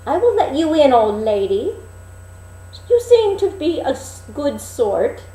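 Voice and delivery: put-on high, loud, innocent girl; sweet Snowdrop at the window; young girl's voice. Snowdrop at the window greeting the old peddler, high.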